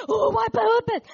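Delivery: high, loud startled shout; startled husband. Retold or imitated. Husband jolted awake by a bang, startled shouting. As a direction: jolt awake and blurt it out loudly. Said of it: "my husband jumped up and said".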